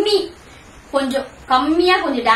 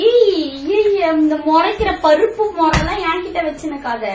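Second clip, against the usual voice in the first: angry warning; 6 semitones higher, slower than usual. Acted. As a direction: snap at her to stop glaring. Staged angry quarrel in prank. (கோபமான எச்சரிக்கை)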